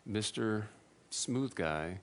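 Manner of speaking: slow, drawn-out sarcastic jab at himself; mock congratulate yourself, dripping irony; sarcastic self-mockery. Scolding himself after making his wife cry, slow sarcasm. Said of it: "And I was like".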